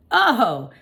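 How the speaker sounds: high, loud oh; tiny hamster voice; small squeak. A narrator's reading. Hamster reacts to the joke with a squeak. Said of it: "I squeaked".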